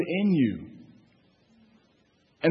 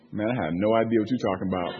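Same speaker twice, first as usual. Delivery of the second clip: baffled listener; 8 semitones lower, 4 dB quieter, faster than usual. Retold or imitated. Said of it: "And Erica looked like".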